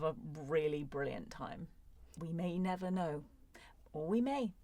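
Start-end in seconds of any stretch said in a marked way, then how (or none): 3.9-4.5 a sly, secretive whisper; teasing whisper. Real, not acted. Teasing hint about a future story.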